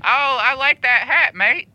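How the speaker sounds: slow, drawn-out fake Aussie; mock Australian accent. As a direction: lay on a put-on Australian accent slowly. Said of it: "Yeah, he's Australian".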